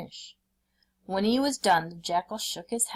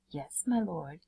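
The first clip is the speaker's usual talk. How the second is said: meek reply; 6 dB quieter than usual. A narrator's reading. Meek jackal replies.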